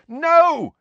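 high, loud desperate yell; Harry, yelling. A narrator's reading. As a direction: yell to stop the fight. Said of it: "Harry yelled".

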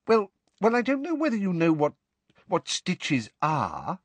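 high, stumbling and hesitant; flustered husband. A narrator's reading. Husband nervously explaining stitches to his wife. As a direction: trip over the words nervously.

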